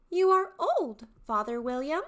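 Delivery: high, loud, eager youth; young man's voice. Shown as a demonstration. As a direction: call out to the old father, high and loud. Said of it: "three distinct character voices".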